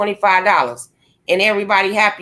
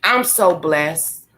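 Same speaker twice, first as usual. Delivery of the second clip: sincere and blessed; 6 semitones lower, much slower than usual. Real, not acted. Ranting, declares herself blessed.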